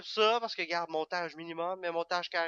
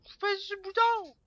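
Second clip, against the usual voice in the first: high, loud complaint; real annoyed outburst; exasperated shout; 8 dB louder than usual. Real, not acted. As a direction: yell at the game in frustration. Frustrated yell at game.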